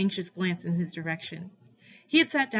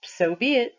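higher, put-on hurt; mock offended; 5 semitones higher, 6 dB louder than usual. A narrator's reading. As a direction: pretend to be offended. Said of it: "acting as if I had offended him".

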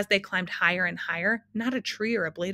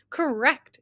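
triumphant call, higher and louder; shouted; 7 semitones higher, 5 dB louder than usual. A narrator's reading. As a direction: announce the right answer loudly. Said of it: "shouted the dodecahedron".

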